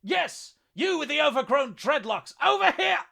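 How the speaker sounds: high, very loud taunting holler; full-throated jeering call; provoking shout. A narrator's reading. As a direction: yell to draw the monster onto you. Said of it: "attempted to provoke the towering monstrosity".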